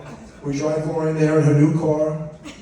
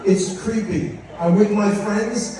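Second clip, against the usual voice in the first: higher-pitched fed-up daughter voice; annoyed daughter; 5 semitones higher than usual. Retold or imitated. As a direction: complain like an exasperated teenage girl. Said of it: "she was mad".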